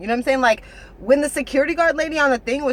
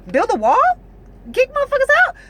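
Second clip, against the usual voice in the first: much higher and louder, hammed-up slogans; mock rally shout; 6 dB louder than usual. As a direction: belt them out like a crowd chanting at a rally. Mocking Trump supporters' slogans.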